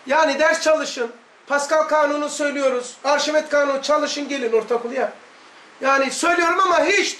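a light imitation of a teacher's Erzurum accent. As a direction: lightly mimic the old Erzurum science teacher. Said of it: "Erzurum şivesiyle şöyle diyordu".

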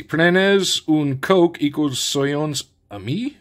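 slow, halting French with an English accent; poor French accent. Real, not acted. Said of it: "apologies for my poor French".

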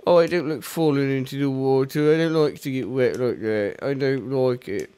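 a light, mumbly hint of a Brummie rock star; lightly voiced moaning rocker, not fully committed; rock singer impression. Host doing a rock singer while falling in water, lightly voiced Brummie moan. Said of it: "That's my rock star impression".

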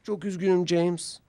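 sorry puff. A narrator's reading. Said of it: "diye çufladı".

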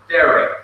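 "Derek" as DEH-rek; accent the opening syllable of "Derek"; "Derek" with a light final syllable; stress on first syllable. Shown as a demonstration. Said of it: "Then the first syllable".

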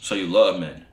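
put-on low voice; deep voice. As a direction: drop the voice down low. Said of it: "I'm finna deep voice activated".

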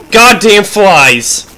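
exasperated slow swearing; annoyed outburst. Real, not acted. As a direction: drag out the curse in irritation. Annoyed at flies.

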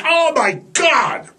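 fan gush. Retold or imitated. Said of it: "We're like".

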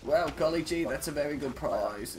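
put-on chirpy old-timey kid voice; wholesome 1950s kid. Joking petrol price role-play.

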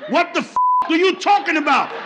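mild acted exasperated outburst. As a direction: demand it with rising frustration. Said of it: "raising your voice and cursing at me".

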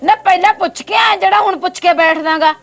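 indignant telling-off; annoyed. Acted. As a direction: put the visitor in his place, a touch angry. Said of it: "ਗੁੱਸਾ ਕਿਉਂ ਕਰਦੇ ਹੋ?".

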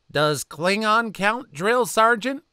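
high, slow earnest question; high-pitched naive recruit voice; nerdy private. Acted. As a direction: ask it wide-eyed and innocent. Private asks drill sergeant naively.

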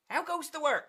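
high-pitched farmer's call. Acted. Farmer calls to duck repeatedly.

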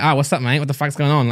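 retold Australian accent, casual greeting. Australian guests answering a prank caller, imitated Australian accent. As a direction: lightly imitate an Australian on the phone. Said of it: "They'd been Australian, um, great accent".

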